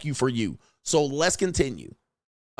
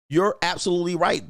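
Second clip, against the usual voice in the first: ordinary talk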